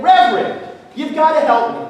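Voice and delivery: mild plea. Acted. Farmer appeals to the Reverend for help, mildly pleading. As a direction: plead a little, voice lifted.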